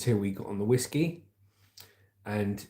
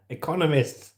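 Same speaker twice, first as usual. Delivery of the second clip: laughing retry; 5 semitones higher than usual. Real, not acted. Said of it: "Oh, I'm learning new words".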